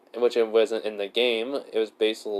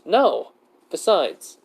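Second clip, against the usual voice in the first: higher, louder acted "no"; emphatic denial; 7 semitones higher, 4 dB louder, much slower than usual. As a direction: deny it quickly in a raised pitch.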